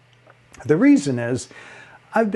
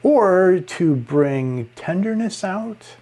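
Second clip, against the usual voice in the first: tender; 5 semitones higher, slower than usual. Shown as a demonstration. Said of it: "pitch can be used".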